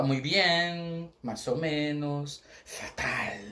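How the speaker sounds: Spanish muy bien, más o menos, fatal, slowing down; Spanish replies demo. Shown as a demonstration. Teacher models Spanish answers to a greeting. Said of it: "a pessoa vai falar".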